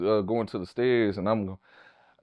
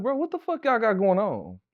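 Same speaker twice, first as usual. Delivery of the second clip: angry confrontation; 9 semitones higher than usual. Retold or imitated. Confronting the friend on couch.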